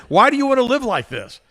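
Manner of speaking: exasperated. Retold or imitated. Exasperated question to brother.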